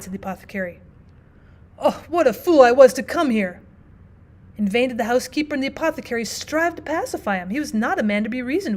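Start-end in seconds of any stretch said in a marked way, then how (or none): 1.8-3.6 panicked cry. Acted. Notary panics over contagion.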